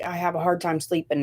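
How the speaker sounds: ordinary delivery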